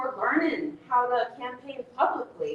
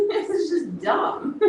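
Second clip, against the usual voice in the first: slow, amused laugh in the words; helpless chuckle breaking into the line; 2 semitones higher, slower than usual. Real, not acted. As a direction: say it through a laugh. Laughs at her own story.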